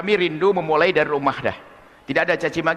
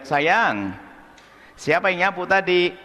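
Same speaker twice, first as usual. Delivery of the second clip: gentle mother; slower than usual. Retold or imitated. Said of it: "seorang tua yang baik".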